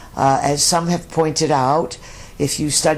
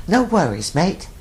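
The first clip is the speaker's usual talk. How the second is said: cheery Australian "No worries, mate" pitched higher; Aussie saying; 4 semitones higher than usual. Retold or imitated. Host quoting the Aussie saying to listeners, light Australian lilt. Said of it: "The Aussies have a great, uh, they have a great expression".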